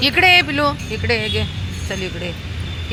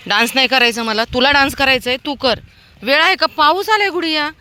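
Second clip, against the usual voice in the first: high, loud telling-off to a dog; real exasperated scolding; 9 semitones higher, 4 dB louder than usual. Real, not acted. Woman hurrying a dog along in the rain, exasperated scolding. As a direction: raise your voice, pitched well up.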